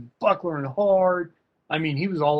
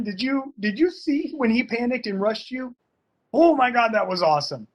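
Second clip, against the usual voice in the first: excited cheering; 7 semitones higher than usual. Retold or imitated. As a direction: gush over the student's scramble, almost laughing. Coach cheering his student after knockdown.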